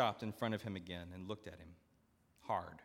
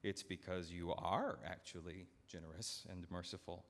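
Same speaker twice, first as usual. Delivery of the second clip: softer, careful answer; cautious; 3 semitones lower, 6 dB quieter than usual. Acted. Steward answering the master, softly and cautiously. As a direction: tread carefully.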